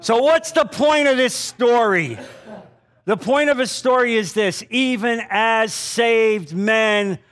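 high, loud preacher's delivery; full-force preaching. Real, not acted. Preacher telling saved men they must forgive, full-force preaching. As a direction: drive the point home with stretched key words. Drives the point home, preaching.

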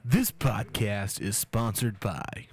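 slow announcer-style sponsor plug; ad read. Pretend. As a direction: read it like a radio ad. Mock sponsor read again.

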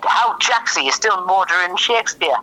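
high-pitched Geordie call-out; broad Geordie shout. Retold or imitated. Local photographer hailing her in the street, broad Geordie shout. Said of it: "he had a broad Geordie accent".

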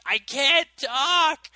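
high, loud, slow choked cry; strangled shout. Retold or imitated. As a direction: force it out through a chokehold.

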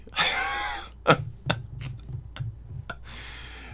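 long, breath-only laughing fit. Real, not acted. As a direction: crack up at your own remark. Laughs at his own remark.

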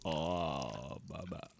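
talking around popping candy; mouth full of candy. Real, not acted. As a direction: speak through fizzing candy in mouth. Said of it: "popping candy in our mouths".

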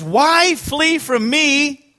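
slow, imploring call after someone fleeing; crying out. Retold or imitated. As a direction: plead slowly, easing down at the end. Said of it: "crying out".

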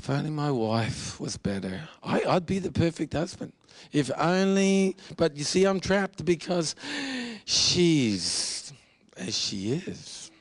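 put-on self-pitying complaint, opening on a sigh; mock woe-is-me lament; mock victim. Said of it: "I'm just now the victim".

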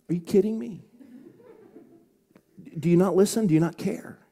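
hurt exasperation. Retold or imitated. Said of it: "I mean, I was hurt".

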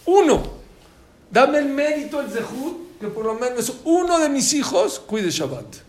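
building to a loud, high cry to God; fervent plea. Retold or imitated. Grandfather at his wedding begging God, a loud high plea. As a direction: beg heaven with rising passion.

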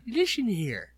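high, put-on mobster call for attention; Tony Soprano. Shown as a demonstration. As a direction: show how the mob boss sounds. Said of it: "That's what it sounds like".

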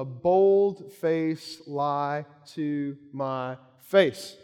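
slow, weighty word by word; drawn-out emphasis. Real, not acted. Father telling listeners of his kid's brazen lie, drawn-out emphasis. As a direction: stretch out each word in disbelief.

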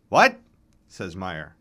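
put-on incredulous old man's bark; accented, indignant one-word query; reedy old man. A narrator's reading. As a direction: demand it as a baffled, irritable old man. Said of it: "His voice is reedy but vigorous".

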